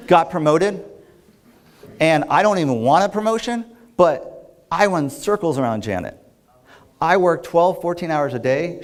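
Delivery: mildly pissed-off rant, imitating a client; retold indignation. Client venting to her coach about a colleague's promotion, mock indignant. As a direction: act out her grievance with emphatic, pointed stresses. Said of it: "And she was pissed".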